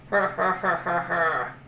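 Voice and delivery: gloating creature chuckle, fading to breath; sly toothy laugh of a crocodile. Acted. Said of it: "when the crocodile laughed".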